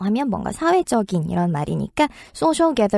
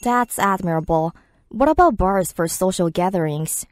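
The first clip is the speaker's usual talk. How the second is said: slow, careful English read; slow listening-track read; slow dialogue read; much slower than usual. Acted. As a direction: read both lines slowly for learners.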